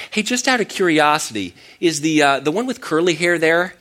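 curious caller raising his voice a little; hopeful caller. Retold or imitated. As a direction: ask like a last hope. Caller asks hopefully about other Paul.

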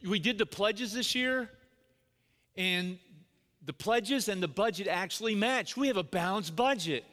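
imitating a proud, excited chairman; mildly hammed-up enthusiasm over small news; really excited. Board chairman explaining the pledges to dad, really excited. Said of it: "he's really excited".

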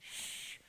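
sharp hushing sound; forceful "shh"; shushing. Acted. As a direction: shush the blind man. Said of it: "And his disciples said".

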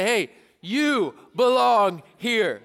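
slow, emphatic, friendly greeting to a neighbour; modelling a greeting. Shown as a demonstration. Pastor showing students what to tell their neighbour, slow and friendly. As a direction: say it slow to the person beside you. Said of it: "look at him and say".

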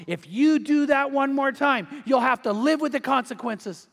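mildly acted final warning to a child; mother's stern warning. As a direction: lay down the law as a mother. Mom's final warning to daughter.

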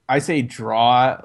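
"draw" with no R, an open drawn-out vowel; "draw" said like draw-aw with no R sound. Shown as a demonstration. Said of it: "with no R".

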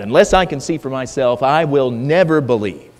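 "never" stressed, set like stone; rigid, adamant. Retold or imitated. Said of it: "he's rigid, he's adamant".

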